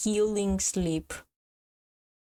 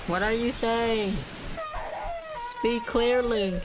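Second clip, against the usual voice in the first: irritated shouting; 4 semitones higher, slower than usual. Real, not acted. Yelling at mic-muffled creature.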